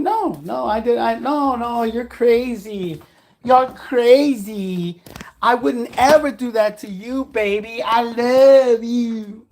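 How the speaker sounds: slow, drawn-out mock denial; mocking her denial. Caught cheating girlfriend, lightly mocked as slow denial. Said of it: "all she kept doing was saying".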